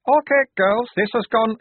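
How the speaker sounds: high, loud command; guard taking charge. A narrator's reading. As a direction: call out forcefully, cut short. Guard starts to threaten, cut off.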